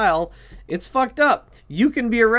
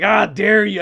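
Alex Jones; 6 dB louder, slower than usual. Acted. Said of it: "That was a good Alex Jones impression".

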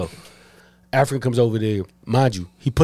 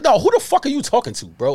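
pitched-up heated challenge; retold anger; 8 semitones higher than usual. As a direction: replay the enraged demand, higher. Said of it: "'cause I'm like".

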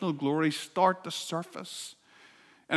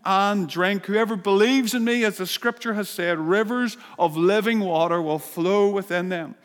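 loud voice; 3 semitones higher, 3 dB louder than usual. Acted. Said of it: "said in a loud voice".

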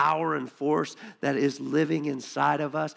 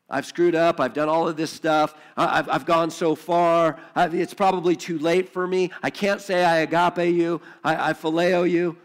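Peter's pleading confession; 5 dB louder than usual. Acted. Peter confessing to Jesus after denying him, pleading. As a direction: pour out the guilt to Jesus. Preacher voices Peter's self-focus.

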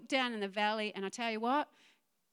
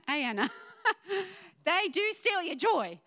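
higher and louder, still laughing; 8 semitones higher, 5 dB louder than usual. Real, not acted. Preacher cracking up at a jellyfish, laughing through the words. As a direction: push the line out through real laughter.

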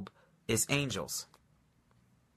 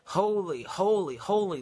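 seraphim calling; 6 semitones higher than usual. Acted. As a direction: call it out like an angel across heaven. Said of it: "These seraphim are calling back and forth".

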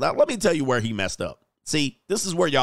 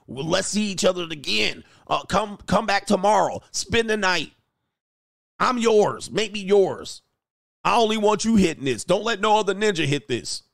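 higher, pleading mock lover; mock lovestruck pleading; 6 semitones higher than usual. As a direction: beg her to stay in a high voice.

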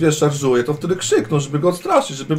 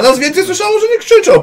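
high protest; 6 dB louder than usual. Acted. Player insists in high voice.

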